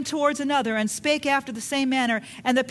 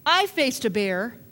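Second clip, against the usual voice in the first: confident boast. Retold or imitated. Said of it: "David just goes on and on to say".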